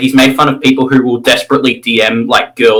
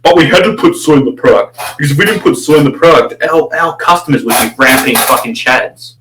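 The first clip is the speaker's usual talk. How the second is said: lightly pitched-up mock voice; mocking quote. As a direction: lampoon his defence. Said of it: "And he's like".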